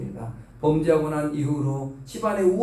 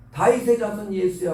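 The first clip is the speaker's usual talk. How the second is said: mock yell, somewhat raised in pitch; retold cry; 4 semitones higher, 4 dB louder than usual. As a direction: imitate calling out to Jesus, not at full force. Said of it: "크게 소리를 질렀습니다". (약하게 흉내 낸 외침)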